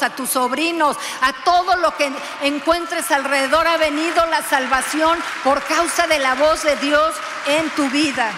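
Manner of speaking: preaching builds to a loud, fervent peak; building sermon. Acted. Preacher proclaiming salvation to the congregation, rising to loud fervor. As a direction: climb toward a loud declaration.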